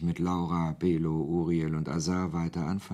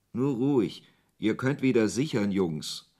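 higher and louder, calling across to the men; 4 semitones higher, 5 dB louder than usual. Acted. Officer calls to his armed men to stand down, loud. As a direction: call out to stand the squad down.

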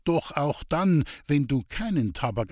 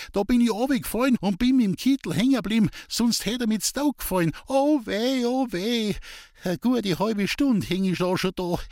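high, fast, breathless lament; frantic old woman; 10 semitones higher than usual. A narrator's reading. Old woman upside down in the tree, wailing to the boys. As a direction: pour out the trouble in a rush.

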